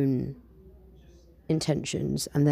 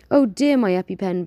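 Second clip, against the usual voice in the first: louder alarmed exclamation; exclaiming; 4 semitones higher, 7 dB louder than usual. Acted. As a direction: blurt it out in alarm. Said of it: "Penzance exclaims".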